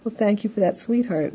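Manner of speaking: mildly tender thanks; tender, comforting. Acted. Husband thanking wife for scarf advice, tender. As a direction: thank them affectionately. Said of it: "more tender or comforting".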